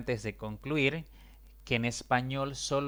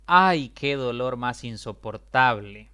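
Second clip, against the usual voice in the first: loud cry of pain on "Ay"; pained exclamation; 9 dB louder than usual. Shown as a demonstration. Teacher reads the example as a loud pained cry. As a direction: voice the example as if really hurting. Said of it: "Aquí tienen un ejemplo".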